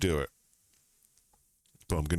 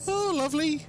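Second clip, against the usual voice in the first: sarcastic. Real, not acted. Sarcastic at dead screenshot.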